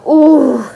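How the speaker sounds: loud, drawn-out "ooh" of a cramp; mock pained "ooh". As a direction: let out a big reenacted wince. Acting out her cramp reaction.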